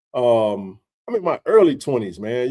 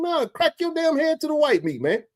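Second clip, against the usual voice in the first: high, heated threat; retold furious threat; 13 semitones higher than usual. Warning the boy outside, retold furious threat. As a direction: spit the threat at the kid. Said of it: "I was hot".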